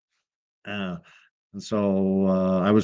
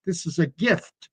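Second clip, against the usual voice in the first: imitating a delighted viewer, higher and gleeful; mock the YouTuber who can't believe his luck; excited reaction; 6 semitones higher than usual. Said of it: "reaction was going".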